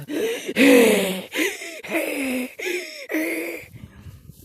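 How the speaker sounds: long, high wheezing gasps; hissing wheeze. Retold or imitated. Showing listeners how the allergy breathing sounded, hissing wheeze. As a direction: imitate struggling, hissing breaths. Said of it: "hissing, I was".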